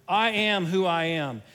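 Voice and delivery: God's voice getting loud. Retold or imitated. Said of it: "I just picture God's voice getting loud here".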